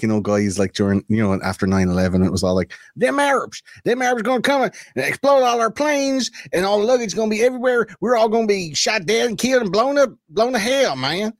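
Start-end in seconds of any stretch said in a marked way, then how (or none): 3.0-11.3 put-on southern redneck accent. Mocking post-9/11 redneck panic in a southern redneck accent. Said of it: "That was a great accent".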